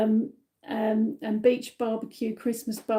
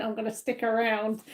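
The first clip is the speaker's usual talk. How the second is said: lightly imitated Australian accent. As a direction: quote him with a hint of Australian. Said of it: "in his accent, he went".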